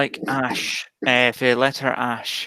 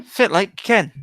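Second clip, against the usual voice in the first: Aberdeen Doric greeting; Doric accent; 5 semitones higher than usual. Shown as a demonstration. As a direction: say it in broad Doric. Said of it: "can you do a Doric accent?".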